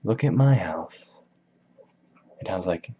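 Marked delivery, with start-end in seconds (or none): 0.0-1.2 slow, changed-voice imitation of the brag; mocking echo. Gatsby echoing Tom's brag, slow mocking copy. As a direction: echo Tom back mockingly, slowly. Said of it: "Gatsby's like".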